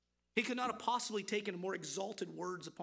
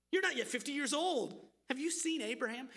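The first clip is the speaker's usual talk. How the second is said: mocking question; 4 semitones higher, 3 dB louder than usual. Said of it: "they're mocking Jesus".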